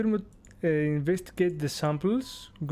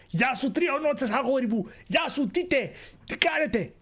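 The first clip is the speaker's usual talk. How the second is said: cheery greeting; 7 semitones higher than usual. Real, not acted. Greeting viewers on stream.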